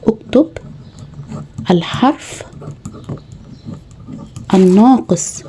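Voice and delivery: "اكتب" "الحرف" "الناقص" spaced out with long pauses; slow spaced instruction for a child; slow dictation. Shown as a demonstration. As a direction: dictate each word separately, slowly. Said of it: "هتعملي له التمرين ده".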